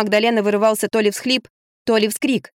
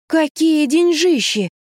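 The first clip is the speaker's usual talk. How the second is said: drawn out high and slow in shock; aghast at the sum, stretching each word; slow, high cry of alarm; horrified gasp; 8 semitones higher, much slower than usual. Acted. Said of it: "ужаснулась Лизавета".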